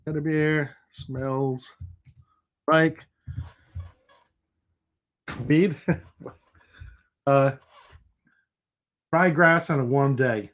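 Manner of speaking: put-on slow, playful Spanish accent; drawn-out mock Spanish accent. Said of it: "if we're doing it with, a Spanish accent".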